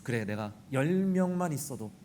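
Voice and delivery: God answering. Retold or imitated. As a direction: speak as God, low and calm. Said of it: "하나님께서". (낮고 조용한 하나님의 목소리)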